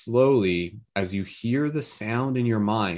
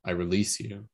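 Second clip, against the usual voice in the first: softly spoken loving release; whisper-soft gratitude to let go; tender soft thanks; 5 dB quieter than usual. Pretend. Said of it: "just sending it love".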